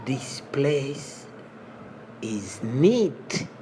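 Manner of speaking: whispered aside. Shown as a demonstration. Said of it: "whispered take".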